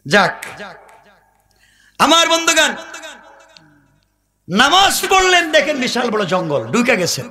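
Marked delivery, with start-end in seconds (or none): 2.0-7.2 melodic preaching. Real, not acted. Preacher telling the crowd a desert tale, chanted. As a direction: chant the tale, stretching phrase endings.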